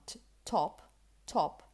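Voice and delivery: "top" with a puff of air after the t; crisp aspirated t starting "top"; aspirated English t. Shown as a demonstration. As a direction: release the t of "top" with breath. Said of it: "words such as this one".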